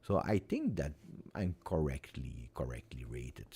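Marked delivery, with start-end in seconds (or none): 1.3-3.5 soft unvoiced whisper, trailing away; whispered aside. Real, not acted. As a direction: say it under your breath, half to yourself. Muttering his own rating to himself.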